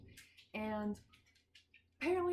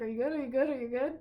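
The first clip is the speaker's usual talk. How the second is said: loud repeated check-in, voice raised; calling to the dog; 7 dB louder, much faster than usual. Real, not acted. To her dog outside, loud calling out. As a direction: call it out across the yard.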